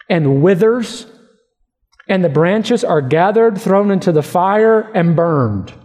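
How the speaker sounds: slow, measured Bible reading; measured pulpit reading with drawn-out phrases; scripture reading. Acted. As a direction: read the verses out deliberately, weighing key words. Reads scripture aloud.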